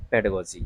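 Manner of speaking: "पेडागोजी" run together as PED-uh-go-jee; short unstressed middle "a" in "पेडागोजी"; taught pronunciation. Shown as a demonstration. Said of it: "इसका सही उच्चारण है".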